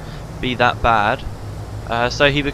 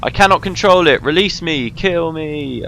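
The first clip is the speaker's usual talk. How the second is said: strained cry; 4 semitones higher, 5 dB louder than usual. Acted. Shiro possessed, straining for release.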